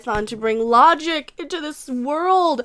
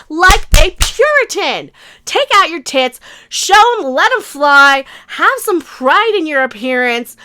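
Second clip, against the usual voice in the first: louder hammed-up indignant rant; mock outrage; 6 dB louder than usual. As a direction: bellow it like a parody critic.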